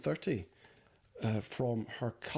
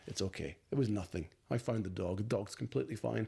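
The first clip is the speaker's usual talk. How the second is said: imagined modest hero; 3 semitones lower than usual. Retold or imitated. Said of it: "hoping I would be a hero".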